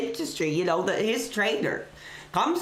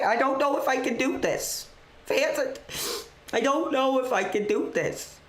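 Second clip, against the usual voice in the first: higher, hammed-up breaking voice; mock overwhelmed; 4 semitones higher than usual. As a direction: play at falling apart. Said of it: "I didn't want to get this emotional".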